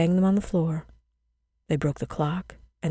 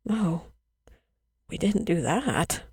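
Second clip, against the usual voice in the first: gasped; 4 dB quieter, slower than usual. A narrator's reading. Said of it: "the children gasped".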